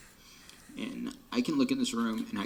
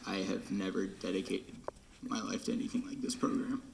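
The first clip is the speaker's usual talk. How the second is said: crying; 3 semitones lower, 5 dB quieter than usual. Real, not acted. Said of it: "it's happening".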